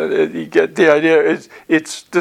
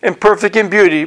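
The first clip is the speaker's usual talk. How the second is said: higher-pitched reading of a verse; scripture reading; 4 semitones higher than usual. Acted. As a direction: read it out as a lofty Bible line. Reads scripture aloud.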